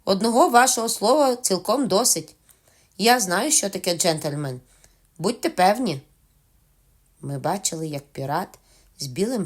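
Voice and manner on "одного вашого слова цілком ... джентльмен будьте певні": higher, louder hearty assurance; Long John cheerfully assuring the captain. Acted. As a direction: reassure him with bluff cheer. Silver continuing cheerfully.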